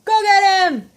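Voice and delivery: high, playful urging to the dog; egging the dog on, laughing; excited call to dog. Real, not acted. Playing with her dog.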